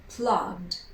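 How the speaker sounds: "plugged" as one syllable, G then D; silent E. Shown as a demonstration. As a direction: voice the G and add a D to "plugged". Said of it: "We pronounce the G and then a D".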